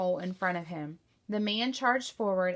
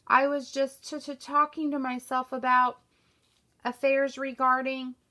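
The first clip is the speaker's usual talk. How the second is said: higher, louder, stuttering in alarm; flustered stammer; 4 semitones higher, 5 dB louder than usual. A narrator's reading. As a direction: caught out, stumble over the excuse. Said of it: "awkwardly trying to put himself".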